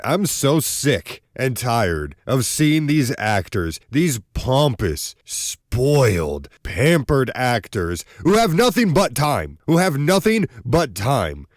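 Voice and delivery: slow, building indignant rant; mock-outraged complaint about spoiled actors. Real, not acted. Ranting about pampered actors.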